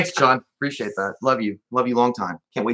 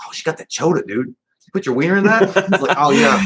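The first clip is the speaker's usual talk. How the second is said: bro voice; 7 semitones higher, 5 dB louder than usual. Retold or imitated. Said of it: "you're like".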